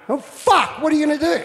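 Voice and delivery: high, loud words through laughter; laughing quote. Retold or imitated. Surfer retelling Johnny Boy realising the injury, laughing. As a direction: quote him while still laughing. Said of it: "he realised".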